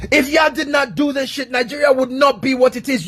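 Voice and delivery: high, heated accusing shout; angry shout. Real, not acted. Blaming the Igbo for Nigeria's troubles, an angry high shout. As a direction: hurl the blame at them.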